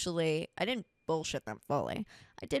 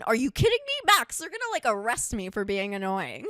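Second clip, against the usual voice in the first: high, loud disbelief; real exasperated disbelief, pitched way up; incredulous outburst; 4 semitones higher, 5 dB louder than usual. Real, not acted. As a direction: burst out as if you can't believe it. Incredulous at being lured in.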